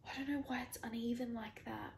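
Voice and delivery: whispered, talking to herself; puzzled whisper. Real, not acted. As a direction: mutter it under your breath, baffled. Puzzled at uneven cut.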